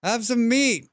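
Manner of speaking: high sing-song pet talk; high coaxing voice. Acted. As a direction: coax it like a pet. Coaxing animals in game.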